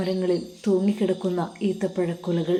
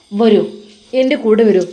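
loud, eager come-along; insistent call; 6 dB louder than usual. Acted. Boss calls Ustad to come along, loud and eager. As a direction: call him over, louder and keen.

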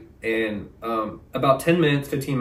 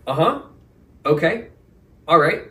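bored manager; 6 semitones higher, 4 dB louder than usual. Retold or imitated.

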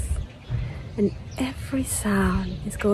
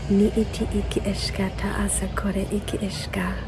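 whispered light language. Acted. Channelled light language chant.

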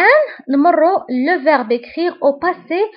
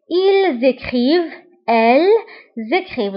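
each form said slowly and clearly, with pauses; careful classroom recitation; slow model recitation; much slower than usual. Shown as a demonstration. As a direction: dictate the verb forms for the class to repeat. Teacher models conjugation aloud.

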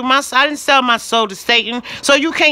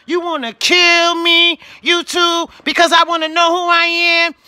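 angry raised voice; 5 semitones higher than usual. Real, not acted. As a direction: throw the question at them, furious. Angry rant at YouTube.

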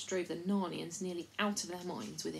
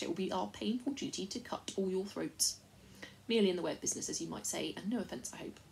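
lightly voiced rustic chief, earnest and worried; a simple country fellow pleading his case; a hint of a rough country leader; 3 semitones higher, 3 dB louder than usual.

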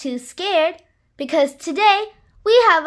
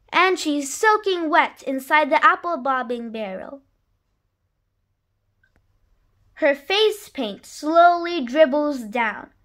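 put-on lively read-aloud rhyme for children; story narration. A narrator's reading. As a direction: read it like a bedtime picture book. Reads a rhyming picture book.

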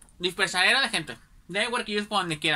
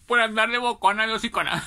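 laughing; 4 semitones higher, 4 dB louder than usual. Real, not acted. Laughing while telling.

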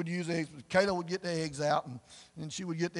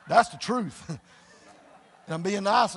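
chuckling through the words; laughing; 3 dB louder than usual. Real, not acted. Preacher laughing at his own story. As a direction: laugh it out at yourself. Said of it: "laughing at himself".

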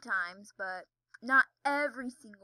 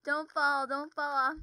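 mock warning, raised in volume; imitated urgent warning; 3 semitones higher, 6 dB louder, slower than usual. Retelling a video's warning, imitated urgent call. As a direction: imitate someone calling out a warning. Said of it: "I'll tell you what the video says".

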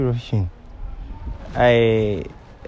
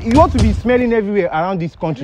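loud, high-pitched protest; insistent high, loud scolding; calling after someone; 12 semitones higher, 5 dB louder than usual. Acted. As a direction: raise your voice to stop them leaving. Prankster calls after offended woman.

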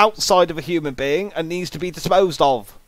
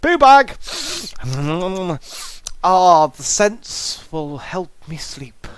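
hammed-up delight at the bag, settling down slowly; mock eager cry; 4 dB louder, slower than usual. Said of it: "you just go".

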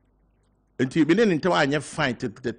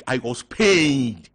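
pained; 7 dB louder, much slower than usual. Real, not acted. Pained at missing the funeral.

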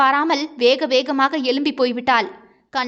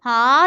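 a short stifled cry behind her hand; muffled sob; 4 dB louder than usual. Acted. Bride alone, thinking of Valiyan, muffled sob. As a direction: choke back a sob with a hand over the mouth. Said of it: "வாயை பொத்திக் கொண்டு அழுதாள்".

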